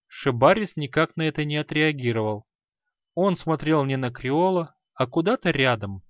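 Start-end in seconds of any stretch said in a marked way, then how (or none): none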